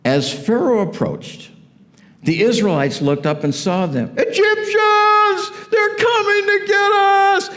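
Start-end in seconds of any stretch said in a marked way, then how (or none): 4.2-7.5 very high, drawn-out panicked shriek; hammed-up scream of terror; cry of terror. Israelites spotting Pharaoh's army, crying out in mock terror. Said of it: "they were totally afraid, and they cried out in terror".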